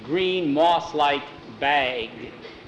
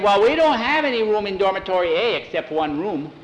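put-on higher-pitched boy's voice; voiced schoolboy; 5 semitones higher than usual. A narrator's reading. Boy to Sam about the full dormitory, high protest. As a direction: play the boy objecting, pitched up.

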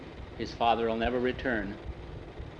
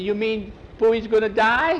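tearful; 9 semitones higher, 6 dB louder than usual. Acted. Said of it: "with tears in his eyes".

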